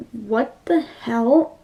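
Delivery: slow, drawn-out bafflement; baffled disbelief. Retold or imitated. Viewer reacting to the wedding attack, baffled disbelief. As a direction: stretch each word in confusion.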